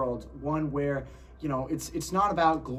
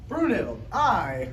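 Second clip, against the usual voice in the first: loud; 4 semitones higher, 7 dB louder, much slower than usual. Acted. Acting Gunther in film clip.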